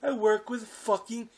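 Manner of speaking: acted outburst from a fed-up father; exasperated rant. Father ranting about his secret job.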